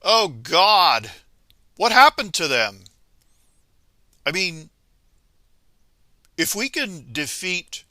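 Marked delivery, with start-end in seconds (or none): 0.0-2.9 mock dismayed ancestors. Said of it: "they're going".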